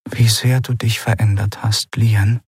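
half proud, half sad whisper. Acted. Mother to grown daughter, whispered half proud, half sad. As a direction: breathe it out, pride mixed with sorrow. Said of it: "halb stolz und halb traurig".

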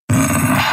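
a voiceless, grumbling hm; gruff doubtful hm; growled hm. A narrator's reading. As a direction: grumble it low in the throat. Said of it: "knurrte Keru".

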